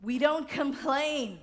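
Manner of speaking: slow, loud, stressed don't; Emma's firm rule, said emphatically; emphatic. Retold or imitated. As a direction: lean hard on DON'T, slowly. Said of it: "emphatically she said this".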